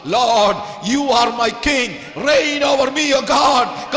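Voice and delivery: full-voiced praise, leading the crowd; loud declaration. Shown as a demonstration. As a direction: lift the voice and call it out to God. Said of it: "ഒച്ചത്തിൽ പറ, വാ തുറന്നൊന്ന് പറ".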